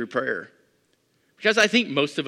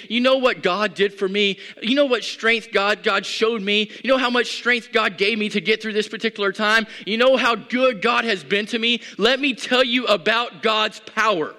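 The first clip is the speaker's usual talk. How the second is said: bold testimony; 5 semitones higher, 4 dB louder than usual. Acted. Voicing a believer's bold testimony.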